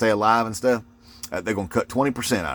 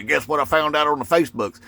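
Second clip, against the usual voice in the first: a higher, mildly mocking voice for a gossiping buddy; lightly mocked buddy; 6 semitones higher than usual. Buddy at work sharing Facebook news, lightly mocked. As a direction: lightly imitate an eager know-it-all coworker.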